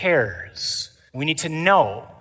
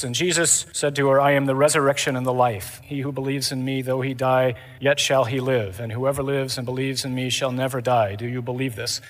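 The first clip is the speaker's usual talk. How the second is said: imitated gospel reading; 3 semitones lower than usual. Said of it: "he's reading the gospel".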